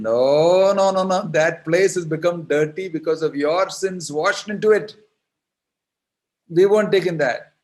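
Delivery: high, loud, firm "no, no, no"; gopis' loud refusal. Acted. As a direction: refuse outright and push back. Gopis refuse the dirty kunda.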